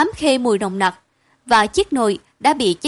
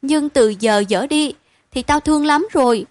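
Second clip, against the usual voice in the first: firm resolve; 4 semitones higher than usual. Acted. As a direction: set your voice hard, a vow. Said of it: "Rồi giọng bỗng rắn lại".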